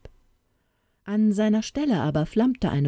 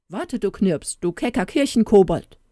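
indignant; 3 semitones higher than usual. Acted. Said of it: "rief er entrüstet".

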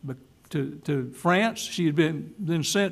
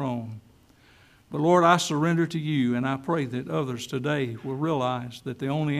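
closing prayer; 2 semitones lower than usual. Real, not acted. Preacher leads the church in a humble surrender prayer. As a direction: pray humbly, as the congregation follows along.

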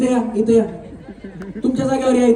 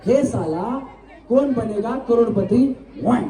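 repeat-after-me demo; 2 semitones lower, slower than usual. Shown as a demonstration. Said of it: "मी बोलतो, माझ्या पाठीमागे बोला".

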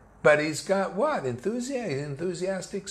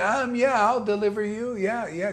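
higher, offhand mock guru voice; lazily brushing off the question, hammed-up; mock fake guru; 6 semitones higher than usual. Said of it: "How ridiculous a person says".

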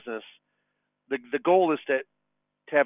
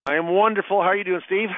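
upbeat, higher-pitched cheery greeting; chipper; 6 semitones higher, faster than usual. Real, not acted. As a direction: greet the host brightly, full of pep. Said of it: "You sound chipper".

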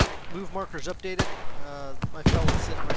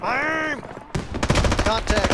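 man down shout; 6 semitones higher, 4 dB louder, much slower than usual. Real, not acted. Calling out under fire.

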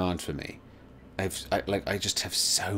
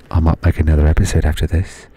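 loud announcement; 13 dB louder than usual. Acted. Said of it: "My name is Michael Caine".

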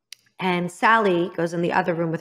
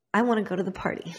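put-on eager teen voice; 5 dB quieter, faster than usual. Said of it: "'cause I'm an idiot".

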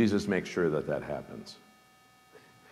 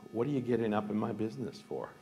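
pitched-up, indignant retort; sharp rebuke; 6 semitones higher, faster than usual. Retold or imitated. Jesus snapping at his mother, sharp and indignant. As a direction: bristle at the meddling. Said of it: "I put that sharply".

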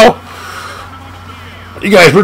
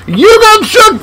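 sing-song gamer gloat; excited taunt; 11 semitones higher than usual. Real, not acted. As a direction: crow it at the opponent. Taunting the opponent.

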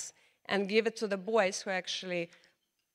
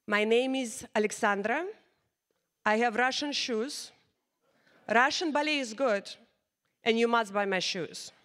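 put-on thick Russian accent. Cold-calling dance schools to sell ballet shoes, thick Russian accent. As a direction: ham up a heavy Russian accent. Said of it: "With a very thick Russian accent".

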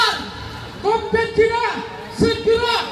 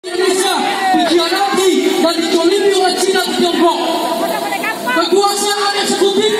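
shouting at a rally; 4 dB louder than usual. Real, not acted. Protest speech over crowd.

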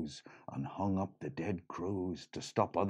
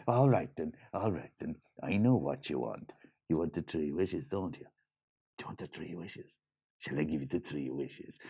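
sly leprechaun; 3 semitones lower, 3 dB quieter than usual. Acted. Leprechaun tempts Lily slyly.

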